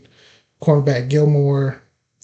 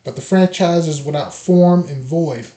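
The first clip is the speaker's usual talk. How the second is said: emphatic podcast opening monologue; scripted intro read. Acted. Host opens the free agency episode, scripted intro read. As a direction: deliver a prepared, rhetorical show opener.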